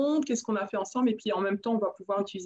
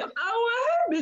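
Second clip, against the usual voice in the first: much higher, incredulous questioning reply; retold surprise; 12 semitones higher than usual. Answering praise of her accent, acted high-pitched surprise. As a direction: act out a high-pitched "oh really?" reaction.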